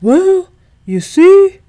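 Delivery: dad caught off guard by the question, slow; stammering dad. A narrator's reading. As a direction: stall for time, unsure. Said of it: "her dad stammered".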